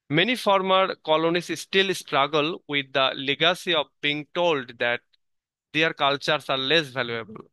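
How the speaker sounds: slow, deliberate reading of a passage; measured textbook reading; slow reading aloud. Acted. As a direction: read each English phrase out carefully for the class. Reads English source text slowly.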